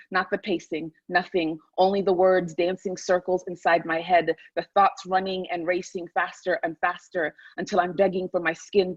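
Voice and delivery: measured, rhythmic literary reading; dramatic essay reading. Acted. Author reading her sleepless-night essay to listeners, rhythmic dramatic recital. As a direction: read it as an urgent, incantatory inner monologue.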